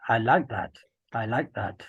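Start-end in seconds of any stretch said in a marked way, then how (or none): 1.1-1.8 whisper. Real, not acted. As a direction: breathe it as a whisper. Repeats praise, then whispers it.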